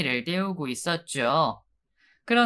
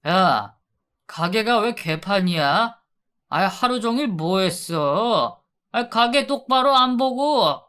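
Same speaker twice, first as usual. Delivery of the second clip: louder, gruff scolding; a touch of drunken scolding; 4 semitones higher, 3 dB louder than usual. Acted. Husband back drunk, scolding his wife for the shop, mildly loud. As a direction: snap at her about the messy shop.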